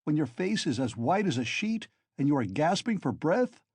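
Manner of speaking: high, loud exasperated scolding; furious. A narrator's reading. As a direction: shout him down in disbelief. Razumihin furious at Raskolnikov.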